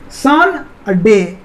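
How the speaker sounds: "सन", pause, "डे", each part said on its own; syllable by syllable. Shown as a demonstration. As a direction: slowly split "सन और डे" into two separate beats. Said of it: "इसमें दो syllable आए".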